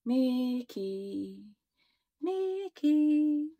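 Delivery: eerie drawn-out calling; ghostly voice. A narrator's reading. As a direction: call out like a haunting spirit. Eerie voice from the book.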